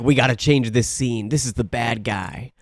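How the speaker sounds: low, quiet mock action-star voice; Steven Seagal. Movie star demanding a scene change, low understated impression. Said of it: "you know Steven Seagal's like".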